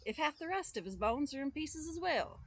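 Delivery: high, loud shrieking complaint; furious wife. Acted. Wife raging to the father about the boy, high and loud. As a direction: rant at the father, voice way up. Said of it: "she cried".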